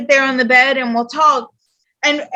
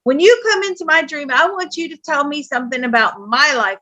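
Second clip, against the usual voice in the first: retold telling-off, quick at first; mildly cross scolding of a parent; mad. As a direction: lay down the law, understated anger. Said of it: "I was so mad".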